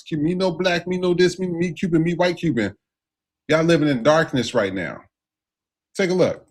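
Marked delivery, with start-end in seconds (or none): 0.0-2.7 mocking a white Cuban Trump fan in broken English; higher, put-on broken English. Mocking a Cuban Trump supporter in broken English.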